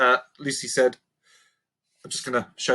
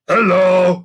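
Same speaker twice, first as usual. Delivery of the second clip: louder, higher cheerful goblin; chirpy hello; 6 semitones higher, 9 dB louder than usual. Acted. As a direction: greet her brightly. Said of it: "waved Sniff chirpily".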